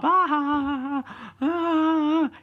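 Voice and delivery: high-pitched imitation laughing; wife's hysterical laugh. Wife rolls on the floor after the scare, hysterical laugh. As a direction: mimic a wife helpless with laughter. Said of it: "laughing her ass off".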